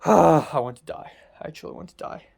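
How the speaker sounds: heavy sigh fading to voiceless; weary despair. Real, not acted. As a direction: sigh it out and sink into a near whisper. Despairing sigh after venting.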